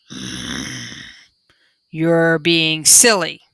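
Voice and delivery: low, slow panda grumble; a lightly voiced grumbling panda; slow low panda mutter; panda growl. A narrator's reading. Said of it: "Mingling growled".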